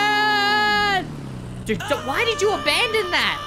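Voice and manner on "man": a stretched, sung-out man; mock dramatic high. Gamer crowns Spider-Man a man with a held high note. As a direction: hold the word man high and long.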